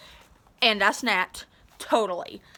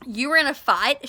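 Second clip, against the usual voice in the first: demanding; 2 semitones higher, 4 dB louder than usual. Acted. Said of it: "she demanded".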